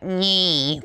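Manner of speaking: imitating a rapper's nyeh; a quick mock rapper nyeh; a rapper's nyeh sound. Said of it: "the way he has that".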